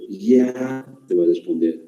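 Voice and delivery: friend's reply. Retold or imitated. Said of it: "Y tu amigo, ¿cómo te va a responder?".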